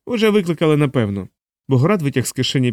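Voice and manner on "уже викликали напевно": high, pleading scared man; scared homeowner pleading innocence; frightened man. A narrator's reading. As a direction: babble in panic, pitched up.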